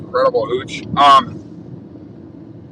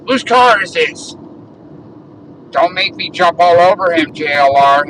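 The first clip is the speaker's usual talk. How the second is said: higher-pitched imitation of a neighbour challenging someone; mock confrontational quote; 3 semitones higher, 3 dB louder than usual. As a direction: mimic an indignant neighbour, raised pitch. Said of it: "That's what she told him".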